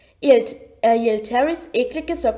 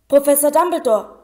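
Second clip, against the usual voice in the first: hasty; 3 semitones higher, 5 dB louder than usual. A narrator's reading. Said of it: "sagte er hastig".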